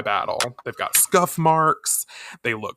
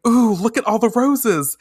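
delighted gushing; 10 semitones higher, 4 dB louder than usual. Acted. Jupiter delighted by flowers.

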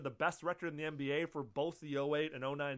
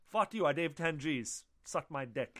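tough Queens guy. Pretend. Podcaster voicing Vince as an edgy Queens tough guy, mock aggressive. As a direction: bark it like a brash guy from Queens. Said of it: "that type of guy".

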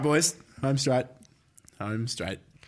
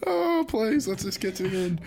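raised quiz host voice; 6 semitones higher than usual. Pretend. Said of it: "voice for the quiz".

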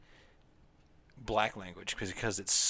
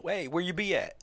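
"where you be at" in a casual slang voice, pitched up; imitating slang; 6 semitones higher than usual. Imitating friends' casual slang, a bit higher. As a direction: lightly mimic a street greeting. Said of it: "They just say".

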